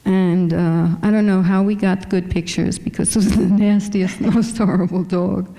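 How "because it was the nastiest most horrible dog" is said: amused, laughing as you complain, pitch lifting a little. Real, not acted. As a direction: talk through a laugh. Laughs recalling a disastrous dog shoot.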